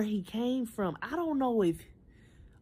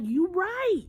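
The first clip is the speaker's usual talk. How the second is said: mock starry-eyed hope; 8 semitones higher than usual. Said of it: "So I'm thinking".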